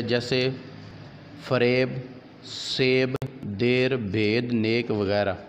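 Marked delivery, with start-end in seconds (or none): 1.4-4.9 "e" rather than "ee" in फरेब, सेब, देर, भेद, नेक; ye majhool. Shown as a demonstration. Teacher showing yaa-e majhool, सेब and देर with "e", never "ee". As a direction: say each word with an "ay"-like vowel, फरेब to नेक. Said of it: "जो खुलकर ना पढ़ी जाए".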